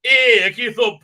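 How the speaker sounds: high, slow, shouted mocking Doctor; mock Doctor impersonation. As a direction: shout it slowly like a smug hero parody. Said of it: "I'm doing my best David Tennant impersonation".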